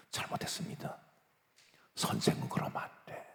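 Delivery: whispered, very soft delivery; hushed admonishing. Acted. Teacher apologizes and is admonished, in a hush. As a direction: drop almost to a whisper.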